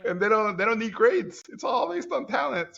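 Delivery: mock giddy teen. Seventeen-year-old bragging to himself about his school, giddy and high. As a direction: bounce it up like a carefree kid.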